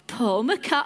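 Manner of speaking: a touch of Scouse; Scouse accent. Real, not acted. Repeating a famous name from the audience, hint of Scouse. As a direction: slip lightly into a Liverpool accent. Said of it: "bit of a Scouse accent there".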